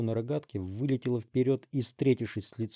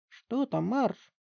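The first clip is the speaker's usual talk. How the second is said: sleepy husband; 12 semitones higher, much slower than usual. Acted. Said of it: "раздался мужской голос из комнаты".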